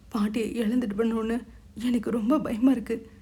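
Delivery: mild tearful fear, falling at the end; a touch of weeping dread; scared crying. Acted. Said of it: "அழுதாள்". (பயந்த லேசான அழுகை)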